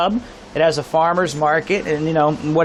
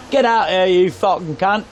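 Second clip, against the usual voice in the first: retold pub yell. Overheard in a pub hallway, mock yell. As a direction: imitate a pub regular's holler, without full volume. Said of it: "echoing down the hallway".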